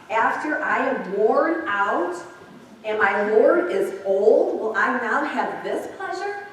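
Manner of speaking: Sarah's inner thought. Acted. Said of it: "She thought".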